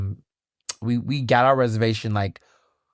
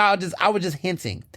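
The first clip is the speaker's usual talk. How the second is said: ordinary talk, nothing marked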